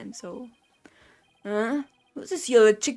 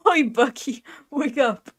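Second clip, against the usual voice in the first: calling out; slower than usual. Acted. Reading a character's call.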